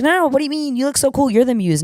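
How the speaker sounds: high-pitched celebrity insisting kindly; imitated gushing. Celebrity insisting to the fan, imitated gushing. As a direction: raise the pitch to mimic her protesting compliments.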